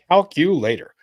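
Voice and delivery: loud voice command; calling out. Real, not acted. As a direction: call out to the calculator again.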